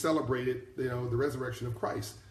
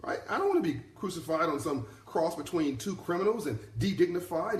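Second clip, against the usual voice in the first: paraphrasing Jesus; 4 semitones higher than usual. Retold or imitated. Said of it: "Translation, if you're asking me".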